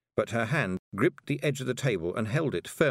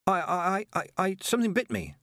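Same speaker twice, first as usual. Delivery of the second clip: high, stammering panic; stammering lie; 10 semitones higher than usual. A narrator's reading. Tiffany stammers a lie to Miss Level, high and flustered. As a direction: stammer it out, rattled and lying. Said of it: "lied Tiffany".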